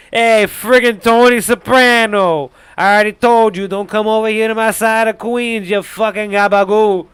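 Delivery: very loud, high New York tough-guy shout; hammed-up New York turf threat; hardcore New York accent. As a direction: yell it as a belligerent Queens New Yorker. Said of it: "like, New York accent".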